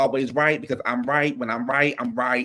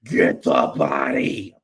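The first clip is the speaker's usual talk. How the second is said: slow, drawn-out church chant; lightly voiced preacher calling out; mock gospel preacher; much slower than usual. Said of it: "She talked about".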